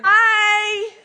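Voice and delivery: very loud, high, drawn-out hello; big long holler of greeting. Retold or imitated. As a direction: imitate a friend calling out to someone passing. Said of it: "I gotta wave to my trash man".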